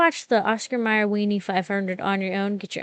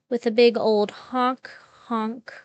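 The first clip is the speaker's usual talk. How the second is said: goofy clown honk, drawn out; silly clown; 3 semitones higher, slower than usual. Pretend. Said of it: "your favorite Pink Panda clown".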